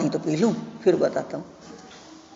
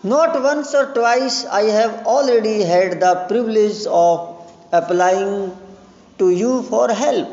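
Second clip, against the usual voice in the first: nervous suitor; 3 semitones higher, much slower than usual. Acted. Lomov recalls past favours.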